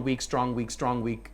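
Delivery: "weak" light, "strong" heavier, alternating; scansion marking. Shown as a demonstration. Actor marking scansion for students, beat by beat. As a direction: mark out "weak, strong" beats. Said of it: "You make a mark of strong".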